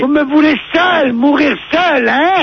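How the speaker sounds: slow, wronged lament; theatrical wounded protest; hammed-up self-pity. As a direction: play the abandoned martyr, drawn out. Acts abandoned brother in quarrel.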